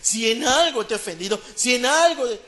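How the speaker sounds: mimicking a conditional apology, lifted on "algo"; imitated half-hearted apology. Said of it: "porque así dicen a veces algunos". (imitando una disculpa a medias)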